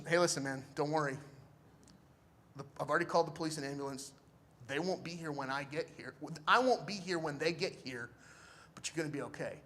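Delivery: soft, level voice of a helper; calm him down, speaking softly; calm reassurance. Retold or imitated. Stranger tells shot man don't worry, softly reassuring.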